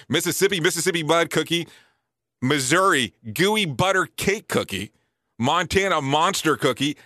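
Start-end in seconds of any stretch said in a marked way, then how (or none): none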